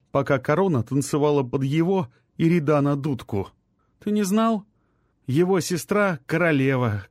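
put-on a sick young man sneering at the court; bitter young man. Rai scoffs bitterly.

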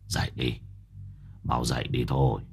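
low, soft urging to wake; master's low voice. Acted. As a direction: rouse him quietly but firmly. Master wakes Cửu.

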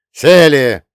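loud, sharp barked command; barked order. A narrator's reading. Revizor orders the guilty policemen to sit, barking loudly. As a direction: snap them into their seats. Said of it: "рявкнул на проштрафившихся милиционеров".

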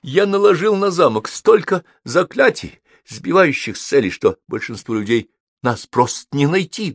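touchy wizard. Acted. Wizard boasts of his spells, then asks for drink, mildly huffy. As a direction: start high and indignant, settling toward a request. Voices Howl in the story.

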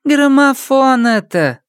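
slow, high weary sigh of a line. Acted. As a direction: breathe it out, tired of explaining. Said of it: "вздохнула Панди".

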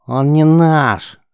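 loud, slow, high protest; protesting shout. A narrator's reading. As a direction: kid protesting loudly, dragging it out. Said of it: "запротестовал мелкий". (громкий протестующий выкрик)

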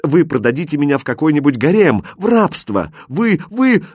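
enraged princess cutting him off; furious outburst. Acted. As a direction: tear into him. Princess raging at her captor.

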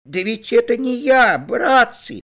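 high, loud frightened plea; pleading. A narrator's reading. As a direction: beg the mob to believe you. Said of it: "взмолился он".

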